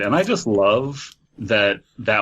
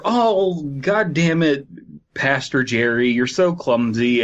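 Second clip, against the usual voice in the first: annoyed churchgoer; 4 semitones higher, slower than usual. Pretend.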